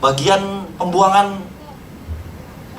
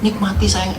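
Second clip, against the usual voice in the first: gentle wife's comfort; 3 semitones lower, 4 dB quieter, slower than usual. Retold or imitated. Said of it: "Istri saya cuma bilang".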